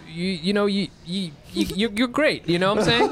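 half-joking pep talk to a guest; mock tough love. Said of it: "This is his tough love".

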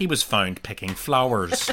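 mock newscaster delivery; newsreader. Joking about correct pronunciation, mock newsreader voice. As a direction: read it out like a news bulletin. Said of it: "that's what newsreaders would say".

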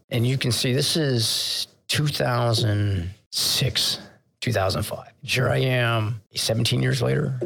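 real emotion breaking through, words barely voiced; choked up. Real, not acted. Captain telling the podcast host about the crying sailor, choked up. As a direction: voice catching, whispered and slowed. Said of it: "and I'm still get choked up".

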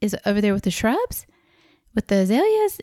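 can't believe it, rising; disbelieving question; incredulous. Retold or imitated. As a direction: pitch climbing in disbelief on azaleas. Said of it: "And I'm like".

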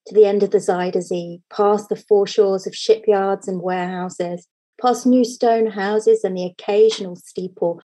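reading a story aloud, unhurried; cozy storyteller voice; fireside storytelling. Acted. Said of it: "in my best storytelling voice".

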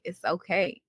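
softly voiced parental comfort; quiet retold reassurance; reassuring parents. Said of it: "when my parents were like".

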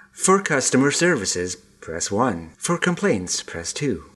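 phone-menu recording voice; automated phone menu. Retold or imitated. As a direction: read it like a hold-line menu. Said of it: "I think I'm on hold with an American company".

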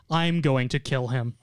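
slow, firm emphasis on I'm; stress on I'm. Retold or imitated. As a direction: counter the rival by stressing "I'm". Second rival contests the kill.

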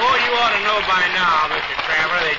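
high cheeky puppet voice; Froggy voice. Acted. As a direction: taunt him, teasing. Puppet taunts.

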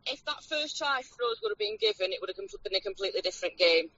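through a phone speaker; phone line audio, thin; on speakerphone. Real, not acted. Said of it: "So you're on speakerphone now".

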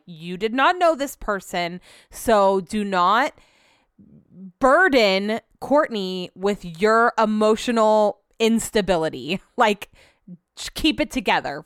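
slow, deliberate self-scolding; self pep talk. Retold or imitated. Woman coaching herself before seeing Courtney, firm slow pep talk. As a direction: talk yourself firmly into composure, word by word. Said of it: "giving myself a pep talk".

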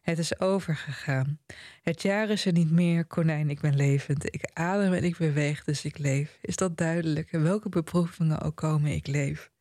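measured reading of a novel's ending; literary reading. A narrator's reading. Reading the famous last passage to the panel, measured literary delivery. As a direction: read it out evenly, each short clause set apart. Continues reading the hero's closing words.

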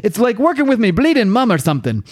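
high-pitched, put-on character voice; acted exasperation. She grumbles about him going on about the force field, exasperated. Redoes Jenny's line in character.

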